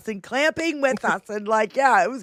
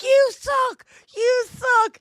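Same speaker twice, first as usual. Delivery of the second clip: mock jeer; 12 semitones higher, slower than usual. Retelling jeering at the MAGA lady, high taunt. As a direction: taunt her twice, sing-song. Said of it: "And I'm like".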